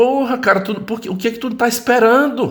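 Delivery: very high, worked-up, agitated yell. Retelling what a cousin said on the phone that night, imitating him yelling. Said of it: "meio alterado".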